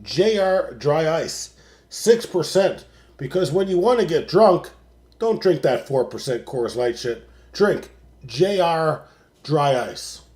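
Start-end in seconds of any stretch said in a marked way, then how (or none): 0.0-2.8 slow sponsor announcement; ad read. Acted. Host plugging his beer sponsor, slow ad read. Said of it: "The official sponsor". 7.5-10.2 slow, emphatic sponsor pitch; ad read. Acted. Host urging listeners to buy, slow ad pitch. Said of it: "The official sponsor".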